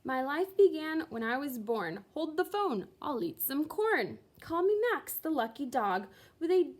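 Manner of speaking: lively nonsense-verse performance; poem recitation. A narrator's reading. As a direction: recite it to the party with bouncy glee. Max reads his poem aloud.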